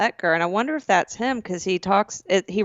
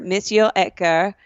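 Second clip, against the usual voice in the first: French-accented name, Monsieur said the French way. Shown as a demonstration. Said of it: "What did you just say?".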